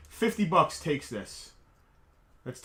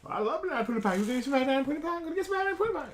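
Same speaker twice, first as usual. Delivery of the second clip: high-pitched Southern dog voice; Tucker's Southern accent; 11 semitones higher, much faster than usual. Pretend. Man voicing his dog craving pie, playful Southern accent. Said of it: "he should have kind of a southern accent".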